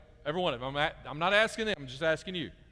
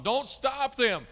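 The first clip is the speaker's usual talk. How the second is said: slow, high and loud; booming, stretched-out command; really loud and strong; 8 semitones higher, 6 dB louder, much slower than usual. Shown as a demonstration. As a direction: say it with the exclamation point. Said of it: "really loud and strong".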